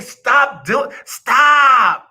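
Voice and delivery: rising high shouted stop; mock protest. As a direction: yell stop like an upset friend. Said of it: "They hate".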